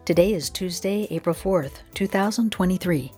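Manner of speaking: upbeat radio host intro; cheerful science show host; bright curious science host. Acted. Radio show intro over music.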